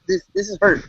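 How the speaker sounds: mock wounded whine, pitched high; mock hurt. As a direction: play the hurt friend, hammed up. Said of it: "See, this is".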